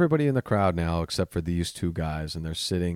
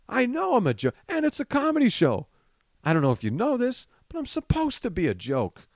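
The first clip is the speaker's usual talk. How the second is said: very high-pitched, strained comic outburst; exasperated rant; 10 semitones higher than usual. Acted. Comic's imagined comeback to a drunk heckler, exasperated self-mocking rant. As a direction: protest at the top of your range, incredulous.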